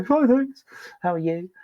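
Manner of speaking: chirpy polite reply. Retold or imitated. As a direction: toss it off brightly. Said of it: "And they'd go".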